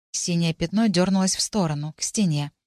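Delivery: usual speaking voice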